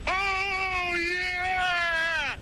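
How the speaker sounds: ecstatic shout. Acted. Ecstatic reply to each item.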